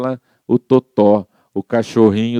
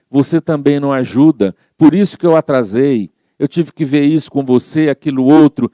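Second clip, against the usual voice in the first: bronca irritada; 3 semitones higher than usual. Retold or imitated.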